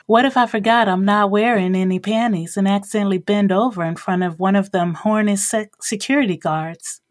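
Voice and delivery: put-on a sweeter, teasing Southern accent, a little fast; Texas accent. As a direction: coax him in a sugary Texas accent. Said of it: "her Texas accent becoming even sweeter".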